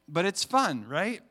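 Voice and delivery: ordinary talk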